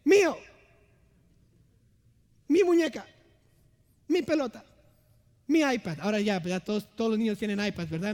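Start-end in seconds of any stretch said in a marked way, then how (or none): 0.0-6.0 put-on high, loud whiny kid claiming toys; greedy child. Preacher mimics his daughters fighting over toys, high childish whine. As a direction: squeal it like a child grabbing toys. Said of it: "¿Y qué dicen?".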